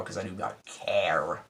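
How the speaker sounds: breathy whisper of not caring; whispered aside. Real, not acted. Vlogger brushing off the trailer in a whisper. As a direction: drop to a dismissive whisper.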